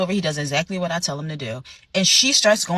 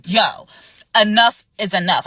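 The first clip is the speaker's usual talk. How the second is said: firm call out; 4 dB louder than usual. Retold or imitated. Manager stops the abuse.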